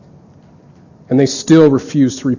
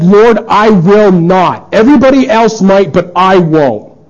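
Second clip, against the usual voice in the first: higher, louder, slow and sure of himself; boastful Peter; 4 semitones higher, 3 dB louder, slower than usual. Acted. Peter vowing to Jesus, slow, firm and boastful. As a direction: swear it like a proud disciple.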